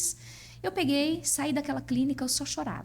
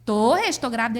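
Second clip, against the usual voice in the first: louder, pressing the point; overjoyed insistence; insistent loud reply; 5 dB louder than usual. Retold or imitated. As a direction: insist he believe her. Insisting to doubtful husband.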